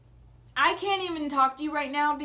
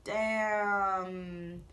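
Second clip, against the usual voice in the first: stunned wow; 4 semitones lower than usual. Retold or imitated. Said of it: "I'm just like".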